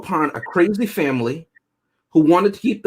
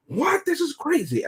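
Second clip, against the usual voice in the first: much higher, a sudden startled squeak; shocked squeal; 12 semitones higher, 5 dB quieter than usual. Retold or imitated. Mocking the British couple's panic, high startled squeal. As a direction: mimic the panicked couple, shrill with alarm. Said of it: "and they're like".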